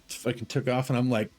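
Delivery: ordinary talk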